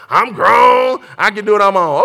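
loud, self-assured boast; puffed-up declaration of being grown; mock defiance. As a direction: play a kid insisting on independence. Mimics cocky grown child leaving.

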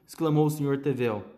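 ordinary delivery, nothing marked

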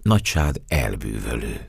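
low, earnest compliment; sincere. Acted. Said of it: "feleltem őszintén".

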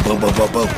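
loud mock gunfire booms; imitated gunfire. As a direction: punch out each boom like gunfire. Imitating gunfire while telling.

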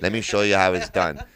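hint of a Persian accent. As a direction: lightly imitate a Persian friend's accent. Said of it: "This guy's Persian".

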